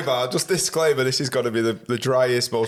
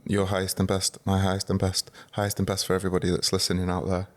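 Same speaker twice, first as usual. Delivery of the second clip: solemn blessing; 4 semitones lower, 3 dB quieter than usual. Pretend. Mock blessing opening the podcast.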